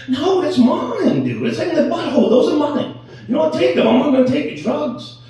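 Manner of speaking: high, loud, defiant rant; indignant rant. Retold or imitated. Patient refusing diabetes pills from his doctor, high and loud. Ranting at doctor about body parts.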